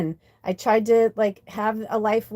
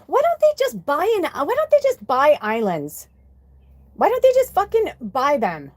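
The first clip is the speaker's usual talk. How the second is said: retold exasperation; 5 semitones higher than usual. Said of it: "the thing that really angered me".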